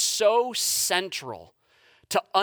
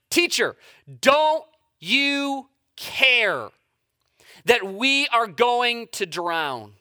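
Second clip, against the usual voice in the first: raised, slow, higher pleading cry; mock shout; 3 semitones higher, 3 dB louder, much slower than usual. Disciples in the storm shouting at Jesus. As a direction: call out in alarm, stretched out.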